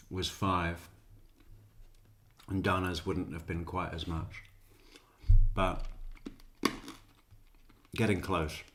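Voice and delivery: eating while talking; talking through crunchy food; mouth full. Real, not acted. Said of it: "Sorry for the, uh, crunching".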